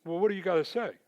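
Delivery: retold boss pressing hard; demanding boss. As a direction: push him for an answer.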